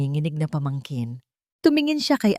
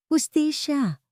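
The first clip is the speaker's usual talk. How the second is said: high, pitched-up cry of justice; near-shout; 10 semitones higher, slower than usual. A narrator's reading. Lena hurls it back at Angelo, near-shouting. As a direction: nearly scream the word at him. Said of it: "Halos isigaw ni Lena".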